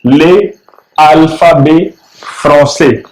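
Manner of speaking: le alphabet français said the French way; French pronunciation. Shown as a demonstration. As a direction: read the French title aloud carefully. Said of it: "इसका मतलब ये होता है French alphabets". (French उच्चारण में "ले अल्फाबे फ्रांसे")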